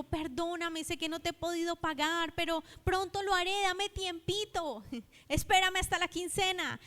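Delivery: a lightly acted servant asking for patience until payday; begging debtor. Debtor begs for more time. (siervo que le pide tiempo a su deudor, ruego algo más agudo y medio en broma)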